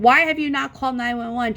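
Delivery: retold parent's mild scolding; exasperated scolding. Scolding daughter in retold phone call.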